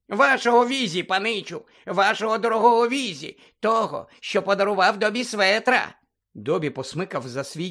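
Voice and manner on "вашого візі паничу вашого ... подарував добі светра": Dobby the house-elf squeaking at Harry; squeaky house-elf. Acted. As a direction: squeak it like an anxious little elf.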